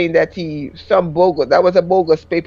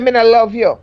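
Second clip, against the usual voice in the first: lightly voiced Jamaican patois; a hint of a Jamaican husband; 3 semitones higher than usual. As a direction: repeat his cold patois. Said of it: "husband's patois quote".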